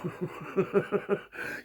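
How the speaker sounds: soft unvoiced laugh at his own joke; breathy laugh. Real, not acted. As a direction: let a quiet laugh escape.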